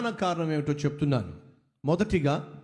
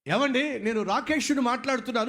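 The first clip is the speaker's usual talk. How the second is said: furious rage; 7 semitones higher than usual. Retold or imitated. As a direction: answer the phone in raging fury. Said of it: "ఆగ్రహంతో phone ఎత్తాడు".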